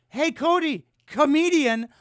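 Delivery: loud, incredulous call to a friend. Real, not acted. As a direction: shout it across the room. Calling out to Cody in disbelief.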